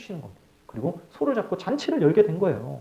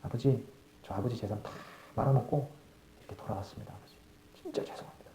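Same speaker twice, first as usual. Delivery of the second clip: tearful confession; 5 semitones lower, 10 dB quieter than usual. Acted. Prodigal son confesses to father.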